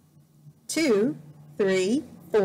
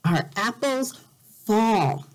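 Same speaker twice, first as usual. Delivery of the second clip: rallying call; 3 dB louder than usual. Acted. Animals rally, louder.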